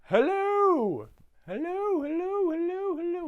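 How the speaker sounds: high, loud call with echoes. Retold or imitated. The Grinch shouts into his cave to hear the echo. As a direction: shout hello into a canyon.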